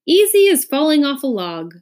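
high, loud exclamation; crying out. A narrator's reading. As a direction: call it out brightly and loudly. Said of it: "cried the earl".

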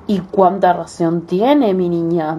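slow, fake-understanding wolf. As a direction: sound sweetly understanding, slowly. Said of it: "tratando de sonar comprensivo".

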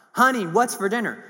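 husband shouting to his wife from the door; calling out. Retold or imitated. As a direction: call across the house to his wife. Husband calling right behind her.

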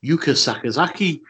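Yuka Sakazaki in a Liverpool accent; Scouse accent. Real, not acted. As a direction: say the name like a Scouser. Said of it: "in my Scouse accent".

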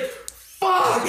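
very high, drawn-out mock wail; retold curse. Friend realizing her date is ruined, mock anguished wail. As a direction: squeal the curse through laughter. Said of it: "And she's like".

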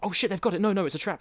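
high, loud acted panic; hammed-up urgent shout; mock alarmed warning. Acts out character's late warning.

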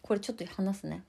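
talking around a candy in the mouth; sucking candy. Real, not acted. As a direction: speak with a sweet in your mouth. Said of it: "ごめんなさい、飴舐めながら".

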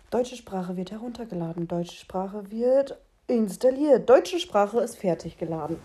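mechanische Computeransage; Roboterstimme. Pretend. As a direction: wie ein ladender Computer. Computeransage gespielt.

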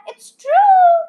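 put-on old folks crying out with a laugh; cried out. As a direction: burst out with glee. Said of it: "cried all four old people".

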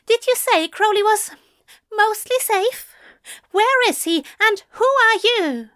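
a tipsy angel trying to sound sober and demanding; flustered drunk angel. Acted.

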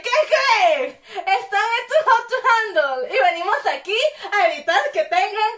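loud, high announcer reveal through laughter; spring the big surprise, laughing; surprise announcement. Retold or imitated. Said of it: "salirles con la sorpresa de".

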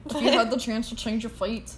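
bad attempt at a Scottish accent; horrible Scottish accent. Podcast host quoting a line about fate, horrible Scottish accent. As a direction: put on a clumsy Scottish accent. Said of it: "We just did h-, horrible Scottish accents".

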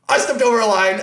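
high, loud comic yelp; hammed-up hasty admission of fault; mock backing down. Fan retreats from the angry guard, mock-panicked backing down.

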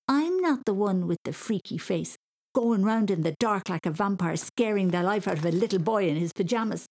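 high-pitched righteous telling-off; indignant scolding. Acted. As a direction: scold an elder in mock outrage. Boy scolds the older girl.

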